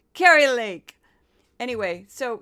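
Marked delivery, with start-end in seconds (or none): 0.1-1.0 high, loud, slow manufactured TV-anchor voice; Carrie Lake. Retold or imitated. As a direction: stretch it out like a polished, over-rehearsed broadcaster. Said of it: "I just wanna do this one".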